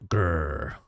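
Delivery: soft playful grr, low and quiet; mock angry growl. Shown as a demonstration. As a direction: growl it like a cartoon. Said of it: "when I'm surprised or angry".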